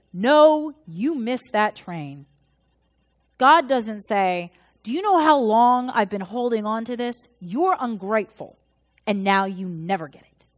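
a hammed-up reproach from an imagined God; mock God chiding the late worshipper; scolding God.

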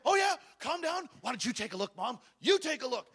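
a son brushing off his mother's advice; sarcastic retort. Retold or imitated. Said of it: "I said".

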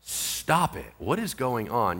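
low-key, softly muttered annoyance; quietly fed up with the interruption; acted irritation. Interrupted man trying to talk to somebody, quietly irritated. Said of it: "it's pretty grating on your nerves".

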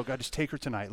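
soft, low-key plea; murmured request to God; retold prayer. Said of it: "I'd pray that several nights in a row".

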